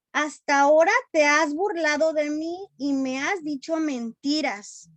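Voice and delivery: annoyed Delilah. Acted. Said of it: "Ya Dalila estaba enojada".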